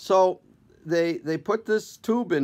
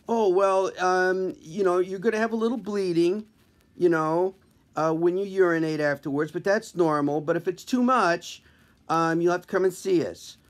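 put-on chirpy kid doctor, lightly; young intern voice; 3 semitones higher than usual.

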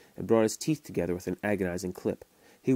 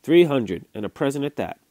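boastful seller; 5 semitones higher, 8 dB louder than usual. A narrator's reading. Seller names his price.

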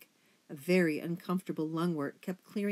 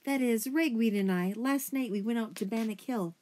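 higher, hesitant, upset account; stammering; 6 semitones higher, 4 dB louder than usual. A narrator's reading. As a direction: stammer through a painful confession.

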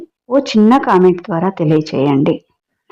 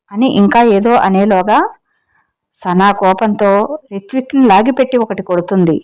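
story narration. A narrator's reading. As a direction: tell the tale to your listeners, lightly dramatic. Reads the story aloud. (కథ చెప్పే స్వరం)

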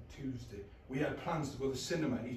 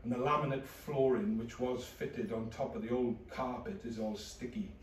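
flat depressed narration. Acted. Low depressed inner narration.

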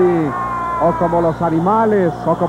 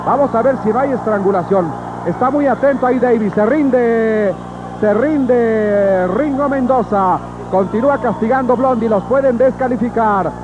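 urgent, high calling of the hold; excited play-by-play; 4 semitones higher than usual. Real, not acted. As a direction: call the submission live. Live call of a submission. (narración emocionada y rápida)

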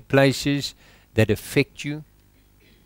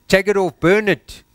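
higher and louder, urge them to take it off and burn it; urgent command; 6 semitones higher, 4 dB louder than usual. Real, not acted. Preacher urging the church to burn the old shirt, loud and urgent. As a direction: push it out like a fired-up preacher.

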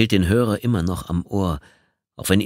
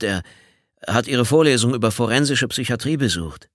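nervous stammer; 4 semitones higher than usual. Acted. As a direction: stumble through the apology anxiously. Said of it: "Moth stammelte etwas zur Antwort".

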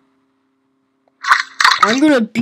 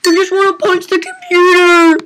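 raging; 6 semitones higher, 5 dB louder than usual. Real, not acted. Gamer raging at the computer, shouting. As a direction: let the fury spill out. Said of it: "Sorry, I'm just raging".

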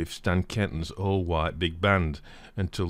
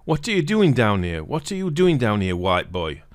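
confronting shout; 3 semitones higher, 5 dB louder than usual. Retold or imitated. Crowd surrounding a white boy at the dance, hostile shout. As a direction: challenge the intruder hard.

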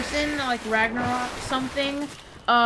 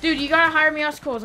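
being chased; 6 semitones higher, faster than usual. Real, not acted. Still chased, urgent plea.

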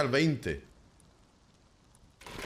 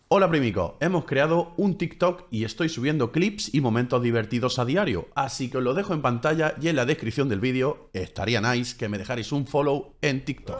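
louder upbeat channel plug; promo read; 3 dB louder than usual. Acted. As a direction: pitch the TikTok like an ad.

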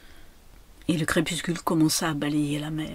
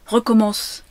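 loud, raised order; sharp command; 4 semitones higher, 8 dB louder than usual. A narrator's reading. Lady telling the child to restart, sharp command. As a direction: order it high and firm.

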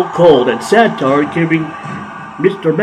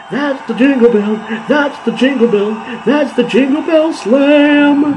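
excited; 10 semitones higher than usual. Acted. Excited repeated call.

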